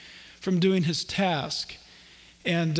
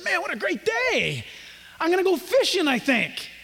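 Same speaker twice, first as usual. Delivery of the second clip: lightly voiced, higher carefree Adam; 7 semitones higher than usual. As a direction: stretch into a lazy happy morning, mildly acted. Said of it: "stood up and stretched and said".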